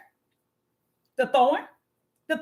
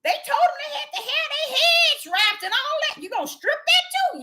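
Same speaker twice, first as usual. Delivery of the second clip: much higher pleading question with a laugh; pleading to God. Retold or imitated. Preacher quoting herself to the Father, high and amused. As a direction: beg the Father in disbelief. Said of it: "And I'm like".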